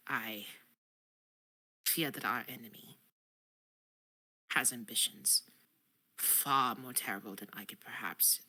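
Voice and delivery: a hint of a worried knight; earnest subject. Knight reports troubling news to the queen, hushed. Player addresses queen in role.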